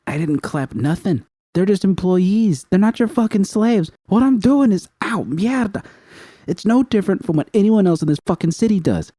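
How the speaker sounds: high, loud and furious; furious shout. A narrator's reading. Judy furious at the gang boss, shouting. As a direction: rage at him, word by word.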